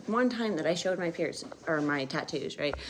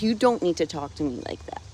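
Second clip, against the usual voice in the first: same rebuke, pitched down and steadier; retold firm rebuke. Answering the stepdad's snapping, firm retold rebuke. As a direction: lay it down firmly, less heated. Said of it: "he went off on me and he's like".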